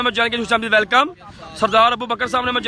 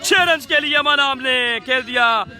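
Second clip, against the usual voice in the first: excited cricket commentary; 3 semitones higher than usual. Real, not acted. Six hit, live commentary.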